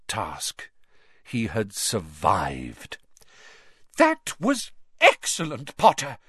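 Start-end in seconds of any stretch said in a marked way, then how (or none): 4.0-6.2 cried out. A narrator's reading. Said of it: "cried Professor McGonagall".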